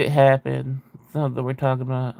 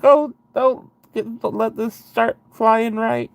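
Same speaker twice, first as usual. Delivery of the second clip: much higher, slow fretful plea; imitated panic; 8 semitones higher than usual. Passenger on the falling plane, mock pleading high and slow. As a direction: beg the plane mockly to fly right. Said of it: "you'd be like".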